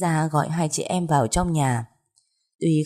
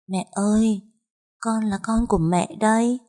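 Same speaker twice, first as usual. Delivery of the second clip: put-on high, thin-edged calling of a ghost child; eerie ghost child; 5 semitones higher than usual. Ghost child calling a woman "mother" in bed, eerily high. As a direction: call out in a high, chilling little ghost voice. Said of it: "cái giọng lanh lành".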